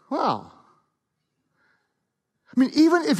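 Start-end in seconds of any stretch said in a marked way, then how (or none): 0.1-0.5 flat disappointed wow. Shown as a demonstration. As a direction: let the wow sink in letdown. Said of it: "Or would he be like".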